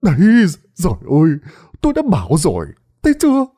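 high, loud I-told-you-so shouting; shrill yelling. Acted. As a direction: crow that he was right, loudly. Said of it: "miệng la lên choe choé". (la choe choé, giọng cao và to)

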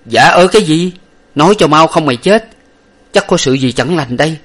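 high, loud furious demand; angry threat. A narrator's reading. Master threatens his servant angrily, high and loud. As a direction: threaten him to speak.

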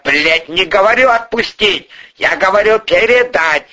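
high, mounting outburst; climbing, high-pitched exasperation; exasperated anger. A narrator's reading. Boss loses patience with subordinate.

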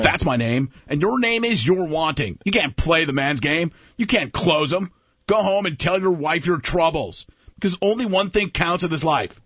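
a light sportscaster take on a sales speech; half-hearted Madden voice on a tough sales pitch; John Madden doing Baldwin. Pretend. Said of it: "John Madden doing the Alec Baldwin".

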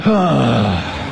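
long, audible falling sigh; big warm-up exhale. Shown as a demonstration. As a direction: let the breath fall out on "hah". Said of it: "sigh out".

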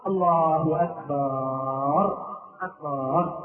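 very slow low intoned takbir with long "akbaar"; imam signalling sitting. Retold or imitated. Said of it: "يريد أن يبين الناس أنه يريد أن يجلس". (إمام يمد التكبير بصوت منخفض)

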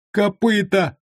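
high squeak from under a sack; high squeaking captive; squeaky voice. A narrator's reading. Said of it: "пропищал из-под мешка Уйбуй".

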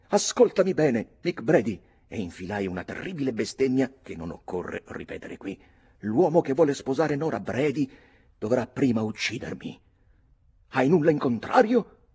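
high, loud, hot-blooded declaration; fierce vow. Acted. Redmond defying Mick over Nora, loud and fierce. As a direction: swear it with fists clenched. Redmond vows to fight rival.

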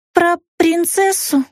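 put-on childlike eager question. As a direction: ask like a small child hoping for a story. Childlike woman asks eagerly.

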